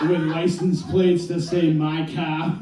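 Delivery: slow, deadpan neighbor asking; dead serious neighbor. Retold or imitated. Neighbor asks him in all seriousness, slow and deadpan. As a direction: keep it slow and completely serious. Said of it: "in all seriousness and goes".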